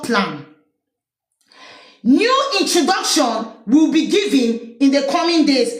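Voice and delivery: very slow, solemn official delivery; stately, drawn-out speech read aloud; reading Chiroma's statement. Retold or imitated. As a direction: intone it like a formal proclamation. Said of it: "Isa Chiroma say".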